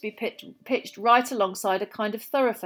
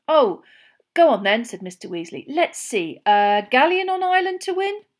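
a hint of a game dad; lightly voiced Mr Weasley; 5 semitones higher, 7 dB louder than usual. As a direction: give in with a chuckle. Mr Weasley agrees to bet.

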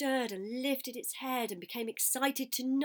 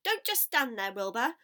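loud, high cries of command; urgent, high-pitched commanding shouts; giving orders; 5 semitones higher, 8 dB louder than usual. A narrator's reading. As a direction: call out urgent orders like a goose in charge. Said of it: "began to give orders".

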